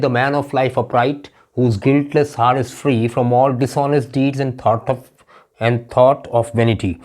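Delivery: slow, measured reading of verse; slow classroom poetry reading; poem recitation. Acted. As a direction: recite it line by line, very slowly. Recites the second poem example.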